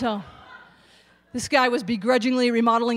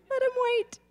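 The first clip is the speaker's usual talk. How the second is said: dismissive; 13 semitones higher, 4 dB quieter than usual. Acted. Nurse brushing off patients.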